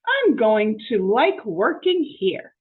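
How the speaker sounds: loud, high, slow and delighted; Amelia Bedelia's voice. Acted. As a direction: gush over the nice folks, drawn out. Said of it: "said Amelia Bedelia".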